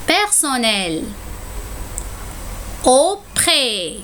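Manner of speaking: relire la liste de la dictée une seconde fois, un peu plus vite; dictée répétée. Shown as a demonstration. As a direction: redire chaque mot pour que les élèves vérifient. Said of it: "Je répète". (la maîtresse relit la dictée à ses élèves)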